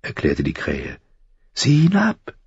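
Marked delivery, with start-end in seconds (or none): 1.5-2.3 high crow command, rising at the end; high, thin voice. A narrator's reading. Crow tells boy to look down, high and thin. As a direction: give a brief order in a thin bird voice. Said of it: "Die Stimme klang hoch und dünn".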